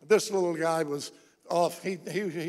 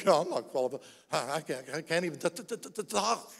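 mild stutter on talk, a touch lower and softer; stuttering Moses; 3 semitones lower, 5 dB quieter than usual. Retold or imitated. Moses telling God he can't speak, mild stammer. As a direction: stammer out the excuse.

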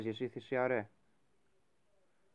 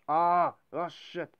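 startled curse; 5 semitones higher, 7 dB louder, much slower than usual. Real, not acted. Sudden setback.

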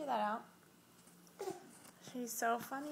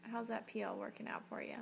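whispering; 6 dB quieter than usual. Real, not acted. Whispered aside to baby.

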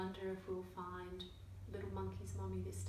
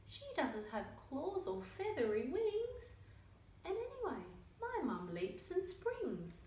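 lively picture-book read-aloud with character voices; reading to children; 3 dB louder than usual. A narrator's reading. Reading a picture book to young children, lively storytelling. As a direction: tell the story to little listeners.

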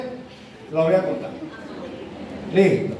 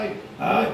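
soft drawn-out mock groans; feigned groans of pain; put-on moaning; 4 dB quieter than usual. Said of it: "y también comienza".

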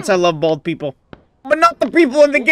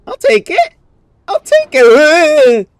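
relieved take; 3 semitones higher, 4 dB louder, slower than usual. Real, not acted. Relief after a lucky save.

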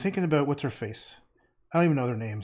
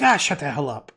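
mock-annoyed, louder outburst; pretend angry; 6 dB louder than usual. Shown as a demonstration. Streamer replays his joking insult to Sheila, pretend angry. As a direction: goof around with a fake angry snap. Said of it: "I was not being serious".

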